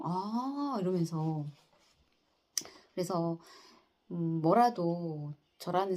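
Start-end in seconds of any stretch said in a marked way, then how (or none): 0.0-0.8 imitating a drawn-out, rising "ah" of surprise; higher, lightly acted surprised "ah"; retold surprise. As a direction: mimic someone hearing news for the first time. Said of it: "굉장히 좀 놀라시더라고요".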